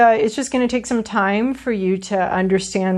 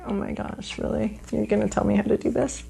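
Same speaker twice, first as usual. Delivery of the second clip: mock indignant; 5 dB quieter than usual. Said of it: "she's like".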